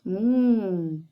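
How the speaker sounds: low, drawn-out thinking hum; a low "hmm" to make pupils think; mock-pensive low hum; pondering hum. Teacher playfully ponders the quiz question.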